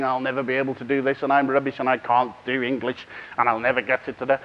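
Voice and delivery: a hint of glum, defeated self-talk, low; Gloomy Greg. Teacher voices a child's gloomy thoughts, mildly glum. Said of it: "Gloomy Greg will be thinking".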